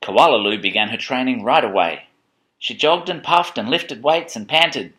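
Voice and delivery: measured picture-book narration; reading to children. A narrator's reading.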